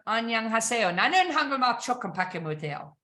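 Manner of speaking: a polite Korean greeting tried out by a learner; careful, friendly try at Korean; speaking Korean. Shown as a demonstration. Greeting a Korean-speaking buyer, in halting polite Korean. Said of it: "speak K or Korean to them".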